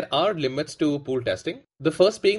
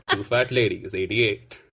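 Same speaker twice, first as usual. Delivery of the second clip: lower, lightly drawled bingo call; bingo caller; 4 semitones lower, slower than usual. Retold or imitated. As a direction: call the number in a low, lazy drawl. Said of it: "Matthew McConaughey impersonators".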